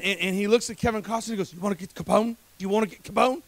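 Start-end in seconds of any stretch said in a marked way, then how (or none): 1.5-3.4 a hint of botched Irish accent, half British; bad Irish accent. Preacher quoting Sean Connery's movie line, shaky attempt at Irish accent. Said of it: "how to do an Irish accent".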